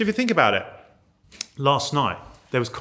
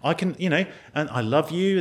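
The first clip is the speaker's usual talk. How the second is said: coaxing owl; 4 semitones higher, faster than usual. Retold or imitated. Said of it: "and I'm thinking".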